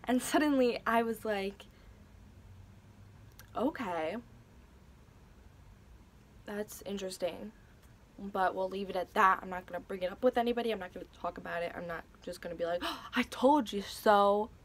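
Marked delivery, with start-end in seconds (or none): 3.6-14.5 dry, sarcastic shrug of a reply. Retold or imitated. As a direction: rattle it off, then drag the last jab. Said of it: "That was so sarcastic".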